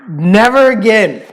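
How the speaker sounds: loud, high hammed-up banishment; mock outrage. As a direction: proclaim the ban in playful outrage, drawing it out. Mock-outraged call to ban a man.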